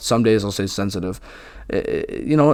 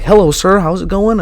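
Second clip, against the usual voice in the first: higher, louder, extra polite greeting voice; on my A game; 7 semitones higher, 5 dB louder than usual. Retold or imitated. Mimicking his polite self around white people, high and proper. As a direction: play the overly proper guy saying hi to a sir. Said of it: "I always say I'm on my A game".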